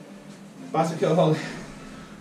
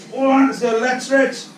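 barking gym coach; 3 semitones higher than usual. Real, not acted. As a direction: fire the class up to go. Coach launching next exercise set.

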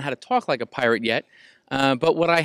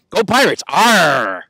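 cheering shout; 9 dB louder, much slower than usual. Acted. Cheering school team.

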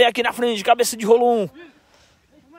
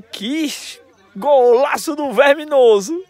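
usual speaking voice

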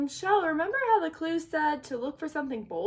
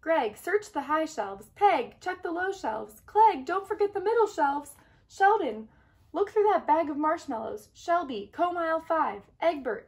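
commanding; 4 semitones higher, 4 dB louder than usual. Acted. Shell commanding the search.

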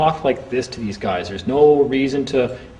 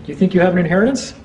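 mocking taunt; 5 semitones higher than usual. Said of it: "Now we go back to the Bible stuff".

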